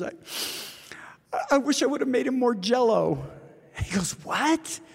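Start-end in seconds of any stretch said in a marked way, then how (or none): 0.0-3.2 high, breaking, tearful whisper of a grieving widow; through tears. Retold or imitated. Grieving widow confesses her regret to Paul, tearful whisper. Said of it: "she's just stumbling through tears". 4.2-4.8 a sudden high, puzzled "what"; baffled. Retold or imitated. Paul asks the crying widow to repeat herself, baffled.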